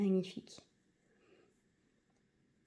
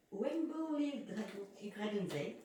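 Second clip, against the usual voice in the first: English title said slowly with a heavy French accent; slower than usual. Real, not acted. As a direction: anglais avec un fort accent français. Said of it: "désolée pour mon anglais exceptionnel".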